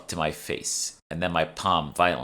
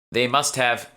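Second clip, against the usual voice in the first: grunting; 7 semitones higher, 5 dB louder than usual. A narrator's reading. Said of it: "Emma grunted".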